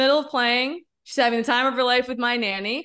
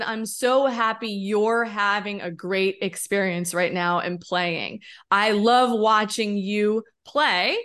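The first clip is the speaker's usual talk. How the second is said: tender reassurance; slower than usual. Retold or imitated. Mother retells reassuring her playing daughter.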